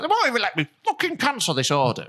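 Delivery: mock rage strop. Retelling a friend failing to cancel the order, mock rage strop. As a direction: play his petulant complaint, amused. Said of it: "he's in a rage strop".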